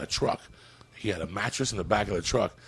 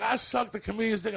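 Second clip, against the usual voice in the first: high mock drunk wife; 11 semitones higher than usual. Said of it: "she's like".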